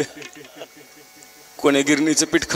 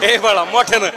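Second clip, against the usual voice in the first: higher, slowed sing-song coaxing; coaxing baby talk; 5 semitones higher than usual. Shown as a demonstration. Mother coaxing Pintya to shout mummy, high baby talk. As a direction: stretch it out high to get the baby to repeat. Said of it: "मोठ्यानं म्हण".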